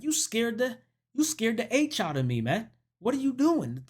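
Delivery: indignant but not shouted; mock startled scolding. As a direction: act out a man scared awake, lightly. Man startled awake scolds her.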